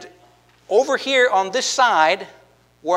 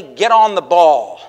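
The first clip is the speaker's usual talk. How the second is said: loud, slow idiom; 3 semitones lower, 9 dB louder than usual. Shown as a demonstration. Preacher calls out the idiom to the congregation, loud and slow. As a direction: punch the idiom out slowly and loudly. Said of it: "if we said to somebody".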